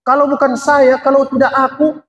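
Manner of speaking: high-pitched, self-important boast; proud boasting. Acted. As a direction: imitate someone bragging about themselves. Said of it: "Bangga dia".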